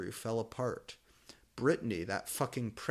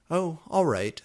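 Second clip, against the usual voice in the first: smiling; 6 semitones higher, 6 dB louder than usual. A narrator's reading. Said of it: "I said, smiling".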